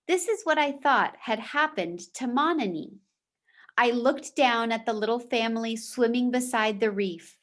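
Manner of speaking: steady storytelling voice for a class; reading a chapter aloud to the class; story read-aloud. A narrator's reading. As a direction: read the novel to the students. Teacher reads novel aloud.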